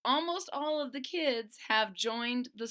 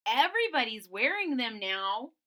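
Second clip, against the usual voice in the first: coaxing Stella; 6 dB louder than usual. Acted. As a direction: tempt your friend with the cool bandanas. Friend Stella voiced.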